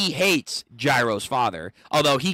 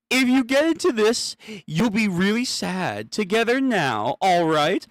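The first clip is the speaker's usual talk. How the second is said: character voice; 5 semitones higher than usual. Acted. Voicing a character's gag.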